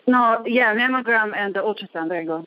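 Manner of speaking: breathless after running upstairs; panting slightly between words; out of breath. Real, not acted. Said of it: "I'm out of breath".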